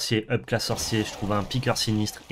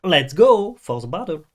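hype call; 4 semitones higher, 6 dB louder, slower than usual. Acted. Hyped battle call.

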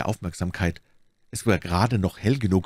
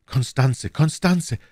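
raised, urgent calling of a name; searching call; 6 semitones higher, 3 dB louder, slower than usual. A narrator's reading. Young man searches for Constanze outside, calling out. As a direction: call the name, climbing higher. Lover calls out searching for her.

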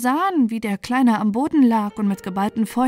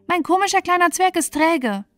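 high, spoiled call; sulky princess calling; 9 semitones higher, 3 dB louder than usual. A narrator's reading. The Infanta calling to her uncle, in a high spoiled voice. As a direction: complain like a pampered child. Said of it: "rief sie".

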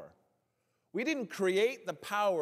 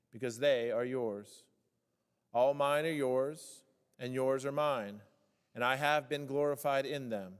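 scripture reading; 2 semitones lower than usual. Acted. Pastor reading the gospel to the congregation, measured and solemn. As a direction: read the Word with solemn weight.

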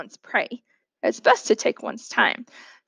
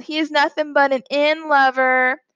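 taunting call, higher and a little louder; 4 semitones higher, 4 dB louder than usual. Acted. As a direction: call the insult across the yard. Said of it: "he called".

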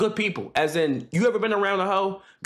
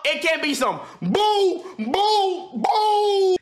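wrong way; 9 semitones higher, much slower than usual. Shown as a demonstration. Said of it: "let me show you the methods".

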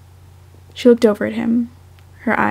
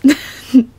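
short loud laugh at herself; 3 semitones higher, 6 dB louder than usual. Real, not acted. Reader laughing at her own cheesy line. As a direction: burst of embarrassed laughter. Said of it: "That's lame".

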